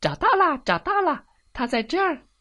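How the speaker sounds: very high, loud hen shout; loud excited cry. Acted. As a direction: shout out the joyful find. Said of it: "葱花母鸡大叫道".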